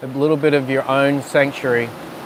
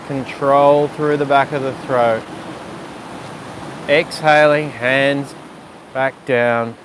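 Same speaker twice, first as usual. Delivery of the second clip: calm yoga teacher guiding a breath sequence; guided breathing cues. Acted. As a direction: talk them through each breath gently. Leads breathing practice.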